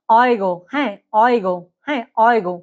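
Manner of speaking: অয়গো opening on an "oy" glide; German pronunciation. Shown as a demonstration. Teacher repeats a German word for learners, অয়গো with "oy". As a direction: model অয়গো carefully, with a "gh"-like sound. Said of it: "এটার উচ্চারণ কিন্তু ঘর মতো হবে".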